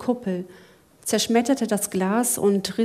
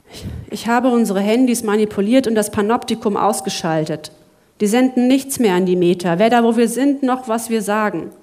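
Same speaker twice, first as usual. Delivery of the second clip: eager explaining; 5 dB louder than usual. Acted. Lachlan explains his hack eagerly.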